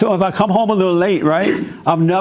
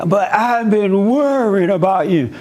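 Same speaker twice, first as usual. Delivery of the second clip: imitating worried wife; 4 semitones higher than usual. Wife in retold argument.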